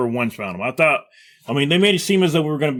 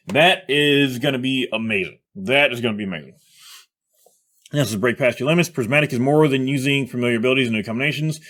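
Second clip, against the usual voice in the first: ordinary talk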